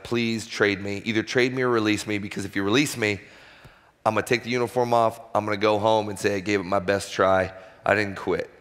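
quiet pleading prayer. Retold or imitated. Pitcher begging God for a trade, quiet pleading. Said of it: "I'm like".

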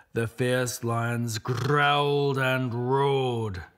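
slow dramatic narration. A narrator's reading. Narration of lions roaring.

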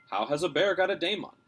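breathless. Acted. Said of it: "he said breathlessly".

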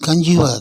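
கன்ஜூவர் as kun-JOO-uh; silent final R. Shown as a demonstration. Teacher models conjure for learners, silent R in கன்ஜூவர். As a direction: drop the last R in கன்ஜூவர். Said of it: "ஆருக்கு உச்சரிப்பு கிடையாது".

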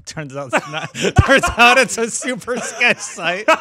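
laughing while talking; words broken by laughter. Real, not acted. Laughing through surprising news.

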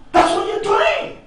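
high, very drawn-out shout; exasperated scolding. Acted. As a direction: stretch each word in mocking disbelief. King angrily dismisses her crying.

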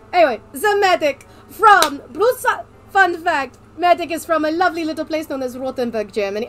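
Medic in a put-on German accent; theatrical German-accented delivery. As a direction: introduce him with a hammed-up German accent. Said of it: "I'm gonna be doing a German accent".

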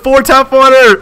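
loud, high imitation shout; fan's battle cry. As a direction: holler it like a rallying cry. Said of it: "He said".

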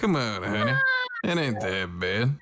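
light Southern drawl, sweet-talking; a hint of a Southern belle drawl. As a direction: coax her in a lazy Southern drawl. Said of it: "I have a southern drawl".

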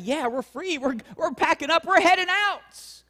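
a light touch of happy relief; excited Israelites. Retold or imitated. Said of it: "is all excited".

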